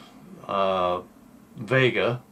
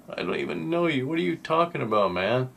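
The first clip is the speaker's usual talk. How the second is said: a higher, lightly voiced girl, incredulous; girl brushing him off; 6 semitones higher than usual. Girl in class answering a stranger who says he'll marry her, lightly voiced and incredulous. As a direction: toss it off like a stranger caught off guard.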